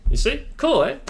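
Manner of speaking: high, loud delighted burst; excited. Real, not acted. Showing viewers his working script, delighted and loud.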